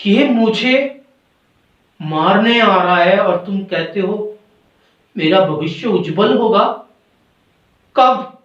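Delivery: betrayed, halting storybook protest; bitter reproach. Acted. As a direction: accuse a friend with long pauses. Betrayed bird reproaches robot before death.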